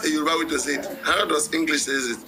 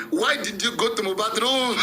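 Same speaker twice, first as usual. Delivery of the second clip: higher-pitched corrected question; raised, amused model question; amused self-correction; 5 semitones higher than usual. Shown as a demonstration. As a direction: correct yourself in a raised voice, about to laugh. Corrects himself, breaking into laughter.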